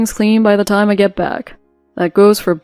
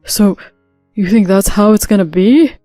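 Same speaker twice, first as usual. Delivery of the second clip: threatening husband; 5 dB louder than usual. Acted.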